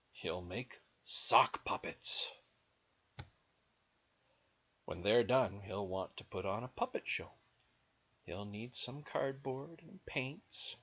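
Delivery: animated story reading with swooping pitch; lilting read-aloud; picture-book narration. A narrator's reading. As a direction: read to small children, leaning on key words. Reads picture book to children.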